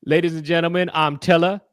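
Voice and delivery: mild mock showman intro; understated host boast; lightly voiced Teller. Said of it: "he goes like this".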